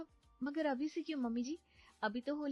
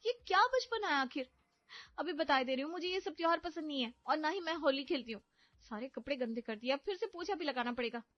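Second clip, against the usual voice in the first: much higher, louder angry scolding; 9 semitones higher, 3 dB louder than usual. Acted. Wife scolding husband and mother-in-law over ruined clothes, angry high scolding. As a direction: give them a piece of your mind. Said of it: "अच्छा खासा सुनाकर".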